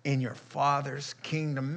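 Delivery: slow, gentle promise; tender promise. Retold or imitated. Jesus promising the smoldering wick, slow and tender. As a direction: breathe the words out tenderly. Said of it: "he says".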